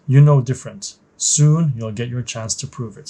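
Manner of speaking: measured, even story read-aloud; story narration. A narrator's reading. Narrator setting the scene for a new trainee pilot, story narration. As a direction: narrate it like a mission briefing.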